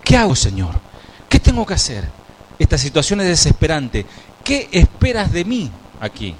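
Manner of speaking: high, pleading cries to God, but no real sobbing; a touch of despair, begging for an answer; desperate pleading. Acted. Moses begs God for guidance, mildly desperate. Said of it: "El líder de Israel pasó horas llorando".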